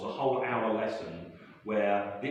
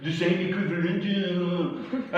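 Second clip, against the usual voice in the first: mock French student; 7 semitones higher, 3 dB louder, slower than usual. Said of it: "Pascal arguing".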